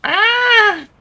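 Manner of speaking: a sudden high loud shriek of shock; sharp scream. Real, not acted. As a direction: yelp out at full volume. Sudden game setback, loud cry.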